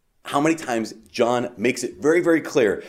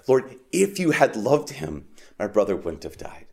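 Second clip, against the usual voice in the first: deeper cry. Shown as a demonstration. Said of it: "this deeper cry".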